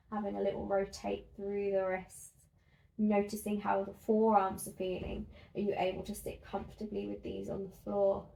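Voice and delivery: calm, even guided-relaxation voice with pauses; guided body scan. Acted. Instructor guiding listeners lying on their backs through a body scan, calm and measured. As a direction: guide them gently through the body, unhurried.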